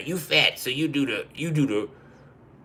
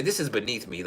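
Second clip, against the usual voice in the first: uppity; 2 semitones lower, 6 dB quieter than usual. Retold or imitated. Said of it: "acting light-skinned".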